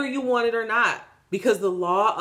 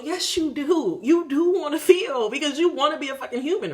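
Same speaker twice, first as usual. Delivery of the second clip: emphatic laughing insistence; 7 semitones higher than usual. Real, not acted. Firm answer to the mocked voice.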